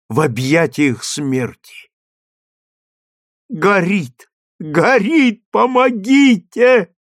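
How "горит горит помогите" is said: rising, higher and louder cries of fire and help; desperate plea. Acted. Mother begging the crowd to save her children, desperate cries. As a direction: wring it out like a mother watching her children burn. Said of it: "молила, ломая руки, бедная мать".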